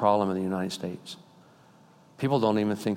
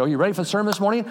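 mock sermon opener; 10 semitones higher, 4 dB louder, much faster than usual. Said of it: "I'll say".

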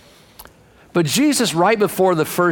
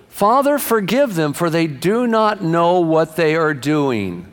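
pleading prayer; slower than usual. Acted. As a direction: cry out to the Father, then measured. Preacher voices Jesus praying on cross.

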